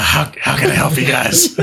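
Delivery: put-on lightly rasped old midwife; a hint of a fierce rasp. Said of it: "in a, a fierce, rasping voice".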